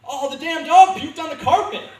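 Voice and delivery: high, loud mock outrage at the dog; fake outrage. Drunk comic blames the dog to his mother, loud fake outrage. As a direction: yell it, blaming the dog. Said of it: "so I was like".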